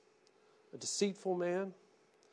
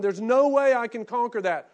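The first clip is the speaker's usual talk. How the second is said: imagined despairing cry; 7 semitones higher, 13 dB louder than usual. Retold or imitated. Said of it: "If you're going".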